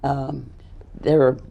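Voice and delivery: strained, fading hoarse voice. Real, not acted. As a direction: voice giving out. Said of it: "I'm losing my voice".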